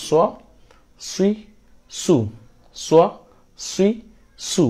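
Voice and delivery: সোয়া, সুই, সু one by one, heavy s; rounded sad. Shown as a demonstration. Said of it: "মুখটা একটু গোল হয়ে যাবে". (গোল মুখে আলাদা করে সোয়া সুই সু)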